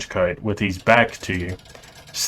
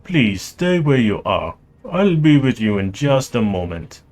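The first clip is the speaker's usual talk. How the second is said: put-on Russian accent; 3 semitones higher than usual. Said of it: "I will try to do his accent".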